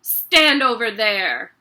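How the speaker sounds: loud curt order. Acted. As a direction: point him aside. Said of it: "the Trunchbull ordered".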